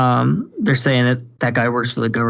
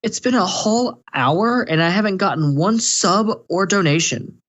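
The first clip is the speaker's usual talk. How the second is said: put-on high, slow whiny girl voice; mimicking the greedy streamer's high complaint; mocking whiny streamer; 6 semitones higher than usual. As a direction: whine it like a spoiled streamer, pitched up. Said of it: "and she goes".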